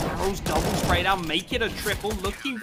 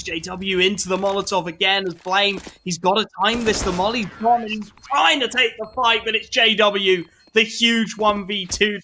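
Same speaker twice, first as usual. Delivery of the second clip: rising into a loud, high call; building excitement; 4 semitones higher, 5 dB louder than usual. Real, not acted. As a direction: build it up until the clutch lands. Caster building to a clutch win.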